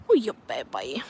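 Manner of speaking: low, half-whispered coo; doting pet talk. Real, not acted. Owner dotes on Scoob in a low, whispery coo. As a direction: coo tenderly to your dog. Cooing to her dog.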